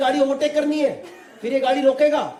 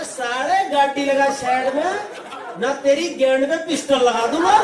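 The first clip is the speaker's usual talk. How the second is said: Haryanvi threat; 3 semitones higher, slower than usual. Retold or imitated. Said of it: "कह रहा".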